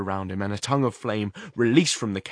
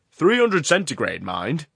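raised voice, dropping on mind; loud over the roar; 6 semitones higher, 8 dB louder than usual. A narrator's reading. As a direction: call it out over the noise. Horrocks shouting over the furnace.

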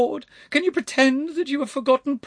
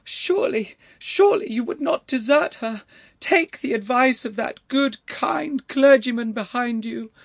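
very high, loud wail of entreaty; 7 dB louder than usual. A narrator's reading. Elderly lady imploring the lord not to desert her niece, wailing. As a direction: plead in a high-pitched wail. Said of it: "wailed the voice".

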